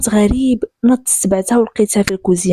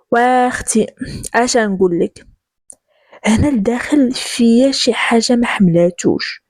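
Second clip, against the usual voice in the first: reluctant confiding; slower than usual. Acted. Marwa confides her dislike, slowly.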